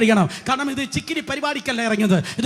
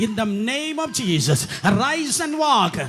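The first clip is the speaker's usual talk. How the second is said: solemn apostle; 3 semitones lower, much slower than usual. Retold or imitated. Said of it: "അവർ പറയുന്നു".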